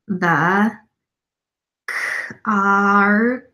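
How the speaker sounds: halting word-by-word reading, sounding out; staccato. Shown as a demonstration. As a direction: read like a struggling new reader. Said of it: "read a paragraph to you in a staccato word-by-word pace".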